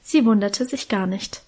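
ordinary delivery, nothing marked

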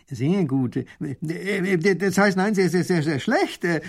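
stumbling over äh and sehr, sehr, sehr; flustered baron stammering a reversal. Acted. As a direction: stutter your way to a correction. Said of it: "stottert der Baron".

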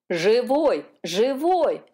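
eager overlapping cries; excited cry. A narrator's reading. Gulls telling the dolphins the calf is alive, eager cries. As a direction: blurt the good news over each other. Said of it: "наперебой закричали".

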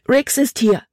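high, urgent cry of alarm; frightened exclamation. A narrator's reading. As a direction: blurt the warning high and breathless with fear. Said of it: "rief sie aus". („Riggs ist hier“ hoch und ängstlich ausgerufen)

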